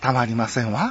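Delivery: refined, gentle, plain-pitched genteel ladylike speech.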